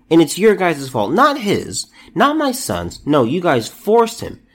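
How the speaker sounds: hammed-up grieving mom pointing fingers; mock outraged mother. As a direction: pitch climbing high on not my son's, mock blame. Voicing the angry mother.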